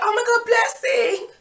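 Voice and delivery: very high, loud, drawn-out squeal; gushing best-friend greeting. Retold or imitated. Ex greeting her at the bus stop like a best friend, gushing. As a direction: mimic an over-the-top delighted greeting. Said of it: "as if me and him were best friends".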